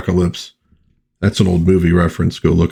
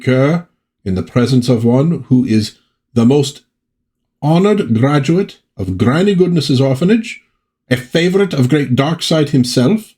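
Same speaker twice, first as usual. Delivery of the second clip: a lightly voiced haughty lord, raised pitch; pompous villain; 3 semitones higher than usual. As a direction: read it like a self-important tyrant. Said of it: "that's how he talks".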